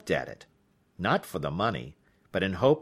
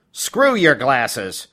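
slow, loud scornful put-down; contemptuous retort; 7 dB louder, much slower than usual. Acted. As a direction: dismiss him with slow scorn. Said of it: "she replied".

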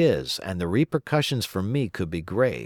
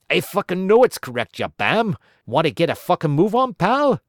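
higher, louder and fast toward the end; cocky snapping; 8 semitones higher, 5 dB louder than usual. Pretend. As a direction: sneer at the host. Gaz snapping at quiz host.

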